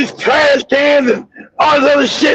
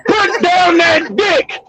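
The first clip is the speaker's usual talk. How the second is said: slow, higher-pitched acted order; retold slow command; 4 semitones higher, much slower than usual. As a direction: draw out each word of the order. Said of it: "I got tired of whispering".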